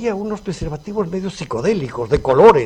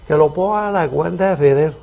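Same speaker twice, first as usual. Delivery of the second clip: lightly put-on raised, louder voice; imitating Fidel's followers; 5 dB louder than usual. Bearded diner answers the maître d', lightly imitating Fidel. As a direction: mimic a self-important Fidel imitator. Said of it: "imitando al gran Fidel".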